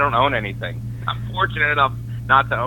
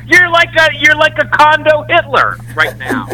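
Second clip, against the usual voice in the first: laughing; 9 dB louder than usual. Real, not acted. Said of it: "laughing at the joke".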